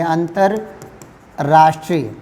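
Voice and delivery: अंतर्राष्ट्रीय drawn out syllable by syllable; slow breakdown of अंतर्राष्ट्रीय in plain speech; slow spelled out. Shown as a demonstration. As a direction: stretch अंतर्राष्ट्रीय slowly, sound by sound. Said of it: "पहले देसी भाषा में एकदम ले लीजिए".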